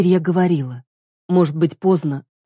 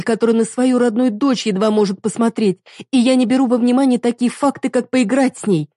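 higher, scornful accusing voice; hurt wife scorning her partner; bitter reproach; 6 semitones higher than usual. Acted. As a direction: throw the word at him with contempt. Heroine lists grievances.

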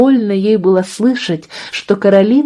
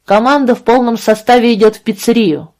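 usual speaking voice

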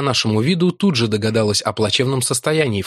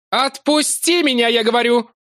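Larry angrily repeating his demand; furious yell; 12 semitones higher than usual. A narrator's reading. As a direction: push harder, losing patience. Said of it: "орал гневно и яростно".

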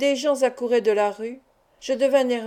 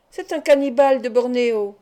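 crowd shouting; 5 dB louder than usual. Acted. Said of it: "des gens criaient".

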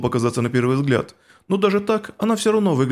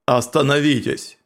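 inhuman voice; slower than usual. Acted. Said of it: "нечеловеческий голос".

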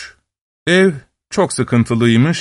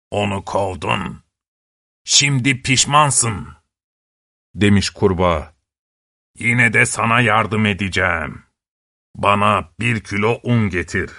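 frog voice; 4 semitones lower, 3 dB quieter than usual. Acted.

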